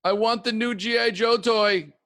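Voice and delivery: put-on high, eager kid voice; a hint of a pleading child; child begging. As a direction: ask like a kid wanting a toy. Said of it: "As babies".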